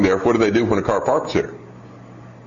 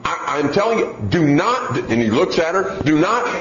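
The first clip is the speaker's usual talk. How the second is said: mock a mother's toothless warnings; scolding mom; 6 semitones higher than usual. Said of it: "she was telling her".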